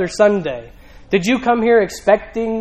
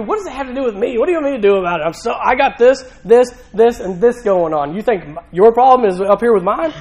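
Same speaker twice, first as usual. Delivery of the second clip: overwhelmed brush-off; 3 semitones higher than usual. Retold or imitated. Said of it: "You ever feel that way".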